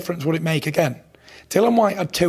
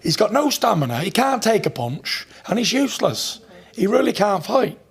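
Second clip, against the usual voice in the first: cocky, raised trash talk; 7 semitones higher than usual. Real, not acted. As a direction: sneer it out like a fight promo. Trash-talking rival before fight.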